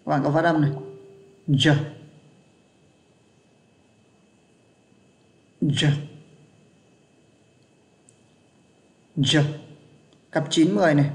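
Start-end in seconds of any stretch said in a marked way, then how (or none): 1.5-9.4 "Giờ" with a light tongue press, eased out slowly; soft, slow-release giờ. Shown as a demonstration. Teacher models sound ten for students, soft slow-release "Giờ". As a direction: say "Giờ" gently pressed, released without snap. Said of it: "ấn nhẹ thôi, đẩy ra chậm".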